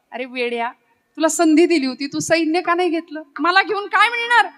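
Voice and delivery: mock innocence, poking fun at a friend; light sarcastic teasing, rising on the middle lines. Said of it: "कुत्सितपणे विचारलं, चिडवलं".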